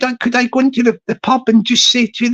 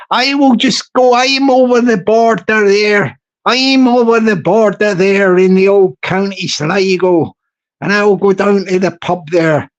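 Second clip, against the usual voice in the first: mock Irish accent. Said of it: "I just feel my Irish voice coming on".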